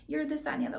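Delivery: a hint of the offended business partner; mocking the ranting partner. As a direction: mimic her indignant rant, half-mocking. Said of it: "just going off and off and off".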